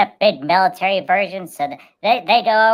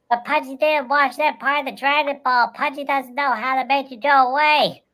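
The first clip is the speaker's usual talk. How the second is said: Pudgy voice; 7 semitones higher than usual. Pretend. Pudgy tells the prime minister his plan, high and earnest. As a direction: play Pudgy, earnest about his spirit bomb.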